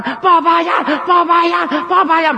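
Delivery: mock crowd cheer, evenly repeated; imitated crowd shout. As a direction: chant it like fans cheering their town. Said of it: "le gritaban".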